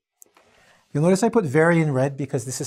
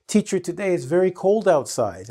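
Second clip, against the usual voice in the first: imitating a student; 5 semitones higher than usual. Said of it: "I notice a lot of students saying things".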